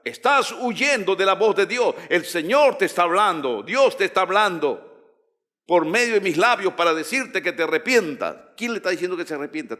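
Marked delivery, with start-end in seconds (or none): 0.0-7.5 emphatic prophetic warning; firm, raised preacher's rebuke; prophet's authority. Shown as a demonstration. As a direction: press the warning home with authority. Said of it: "Habla con autoridad".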